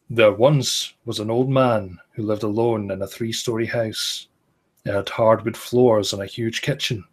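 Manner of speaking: steady, measured horror story reading; story narration. A narrator's reading. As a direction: read it like a campfire ghost story.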